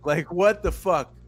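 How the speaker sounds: loud, slow telling-off; loud scolding. Retold or imitated. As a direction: slap down the bragger, loud and slow. Mocking rebuttal to bragger.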